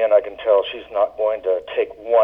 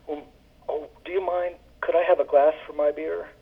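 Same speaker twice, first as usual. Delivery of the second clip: very nicely; 6 semitones higher, 6 dB quieter than usual. Retold or imitated. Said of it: "she said very nicely".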